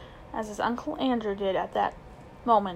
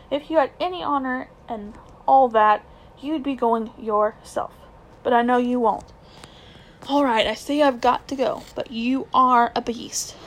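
put-on angry boy; 5 dB louder than usual. Boy calling his uncle a beast, louder. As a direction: spit out your disgust at him.

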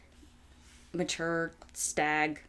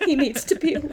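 higher, louder mocking narrator; mock quote; 11 semitones higher, 10 dB louder than usual. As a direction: parody the book's solemn line. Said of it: "quoting the book mockingly".

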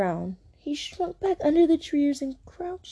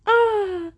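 high, drawn-out "ah"; a roar that comes out wrong; failed roar attempt; 9 semitones higher than usual. A narrator's reading. Lion's third try at a roar, high weak "ah".

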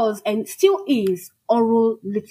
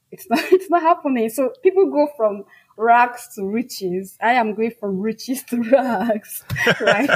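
laughing. Real, not acted.

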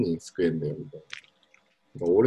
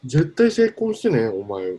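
higher, slow, insistent grandfather urging; imitating grandfather; 4 semitones higher, 4 dB louder, much slower than usual. Quoting his grandfather on the phone, a slow insistent urging. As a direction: press the point like a pushy grandpa. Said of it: "みたいなプレッシャーかけられて".

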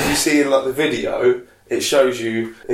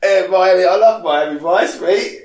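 higher cheeky cockney impression; David Jason impression; 3 semitones higher than usual. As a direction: play it up as a cheeky Londoner. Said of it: "Is that what David Jason sounds like?".

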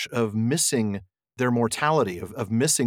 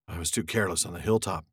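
grave ranger voice; 5 semitones lower, 5 dB quieter than usual. Acted. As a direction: speak low like a weary ranger. Voicing Strider, low and grave.

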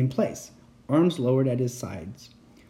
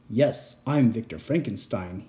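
raspy voice; 3 semitones lower than usual. Acted. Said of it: "he, he rasped".

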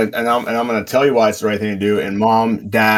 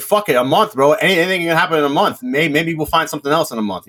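higher-pitched, hopeful pleading; mock-hopeful reasoning, pitched up; retold desperate bargaining; 6 semitones higher than usual. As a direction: talk yourself into one more month. Voicing owner bargaining for time.

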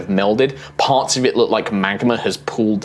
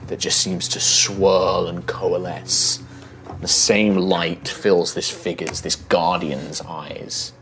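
story narration; 4 dB quieter than usual. A narrator's reading. GM scene setting.

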